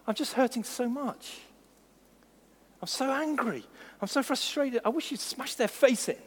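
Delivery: hurting prayer. Retold or imitated. Voicing honest angry prayer.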